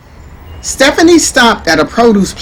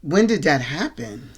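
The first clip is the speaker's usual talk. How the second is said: concerned; 4 semitones lower, 7 dB quieter, slower than usual. A narrator's reading. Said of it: "Stephanie seemed genuinely concerned".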